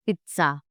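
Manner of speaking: PIZZA said "peet-sa"; a crisp TS in the middle of "Pizza"; TS sound. Shown as a demonstration. Teacher demonstrating the German Z, TS sound. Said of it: "it's at a T S sound".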